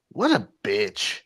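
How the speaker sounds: slow muttered mock aside; lightly voiced commentator's deadpan jab; Tony Schiavone's aside. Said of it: "Tony Schiavone just goes".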